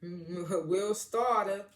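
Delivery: "starter" drawn way out, ending in "ah"; catchphrase imitation. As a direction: slowly stretch "starter" into "stah-tah". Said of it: "he kept saying".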